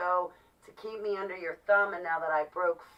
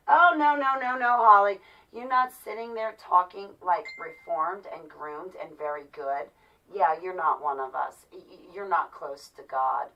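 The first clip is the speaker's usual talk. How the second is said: mocking church people; 3 dB louder than usual. Mocking church people scolding Holly for not conforming, sneering. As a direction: parrot their scolding in a shrill mocking tone. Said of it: "Everybody turns around".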